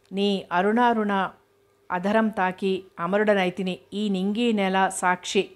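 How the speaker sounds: slow, lightly dramatic verse; poem recital. Acted. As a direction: savour each word of the poem slowly. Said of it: "ఇదిగో ఇప్పుడు విను". (నెమ్మదిగా కవిత చదువుతున్నట్లు)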